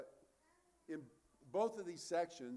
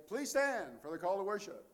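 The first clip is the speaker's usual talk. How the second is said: liturgical call; 3 semitones higher, 6 dB louder than usual. Shown as a demonstration. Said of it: "we say".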